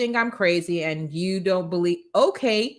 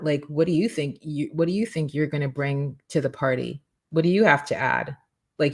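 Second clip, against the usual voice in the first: mock doubter; 2 semitones lower than usual. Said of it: "if somebody were to come up to you and say".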